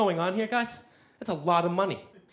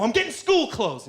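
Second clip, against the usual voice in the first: put-on defensive teen; 8 semitones higher, 4 dB louder than usual. Teen answers mother.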